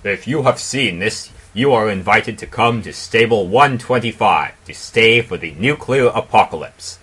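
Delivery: a hint of a retro radio ad; mock commercial read. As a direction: sell it like a cheesy vault commercial. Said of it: "commercial plays".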